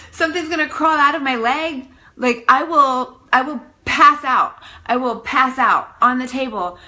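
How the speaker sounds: 1 panicked. Retold or imitated. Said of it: "I was freaking out".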